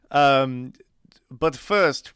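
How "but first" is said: quick whispered aside. Acted. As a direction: drop to a whisper for two words. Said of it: "whispered aside".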